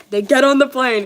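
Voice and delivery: real giggle on every word; laughing. Real, not acted. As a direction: crack up rereading it. Rereads laughing.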